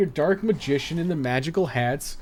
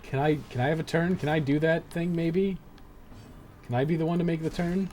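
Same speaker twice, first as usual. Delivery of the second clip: higher-pitched, put-on polite begging; mock pleading; 4 semitones higher, 3 dB quieter than usual. Player begs the game for a turn, mock pleading. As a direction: plead with sarcastic meekness.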